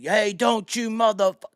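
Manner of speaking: high, drawn-out mock yell; imitating enraged cop. Police officer losing it at a stopped car, imitated angry yell. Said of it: "lost his shit".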